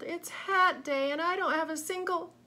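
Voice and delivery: high, loud wail breaking off. A narrator's reading. Lady wailing before crumpling into a heap, high and loud. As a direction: wail until you collapse.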